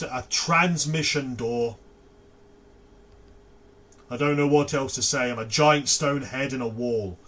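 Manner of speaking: stone head door. Acted. Stone door head greeting students, lightly voiced. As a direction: play a cheerful stone door introducing itself. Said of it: "And the head will".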